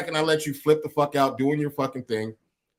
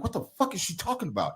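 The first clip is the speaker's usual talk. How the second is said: muttered aside; 3 semitones higher, 9 dB quieter than usual. Retold or imitated. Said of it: "And I was like".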